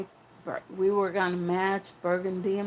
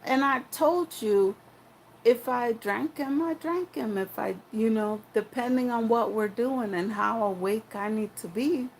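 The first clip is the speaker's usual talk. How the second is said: higher, insistent pleading point; raised voice; 4 semitones higher than usual. Retold or imitated. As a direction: argue your case, pitched up. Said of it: "I'm like".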